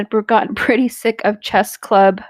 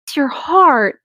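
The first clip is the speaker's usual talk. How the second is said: genuine sympathy; 4 semitones higher, slower than usual. Shown as a demonstration. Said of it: "that's actual genuine".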